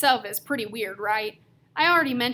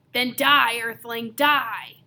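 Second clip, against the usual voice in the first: mock death threat; 5 dB louder, much slower than usual. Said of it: "he goes".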